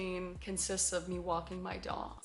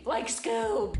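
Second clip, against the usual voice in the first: cartoon dog impression; 6 dB louder than usual. Imitates Scooby after saying shaggy.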